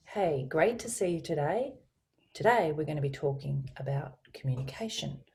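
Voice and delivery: GREAT to see you today lilting up at TODAY; different friendlier feeling. Shown as a demonstration. Coach contrasting feelings for colleague, lilting inflected welcome. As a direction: lift GREAT and let TODAY rise. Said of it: "That's a different, completely different feeling".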